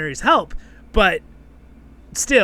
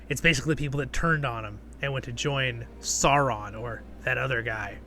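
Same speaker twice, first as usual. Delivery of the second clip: ordinary delivery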